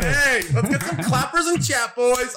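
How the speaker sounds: high, stretched-out hype call; excited rallying call. Real, not acted. Host calling on chat to celebrate, excited cheer.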